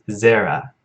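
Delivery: Zera with stress on the first syllable, ZEH-ra; right stress. Shown as a demonstration. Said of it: "the accent is on the first syllable".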